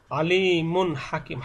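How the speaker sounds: "আলিমুন হাকিম" slow, n sounded without a hum; clear izhar. Shown as a demonstration. Teacher reviewing izhar letters, clear n. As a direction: stretch the i of "আলিমুন হাকিম", keep n short. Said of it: "স্পষ্ট করে পড়তে হবে".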